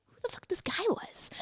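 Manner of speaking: hushed, emphatic undertone; hushed aside. Real, not acted. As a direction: drop to a half-whisper. Hushed swearing while explaining her curiosity.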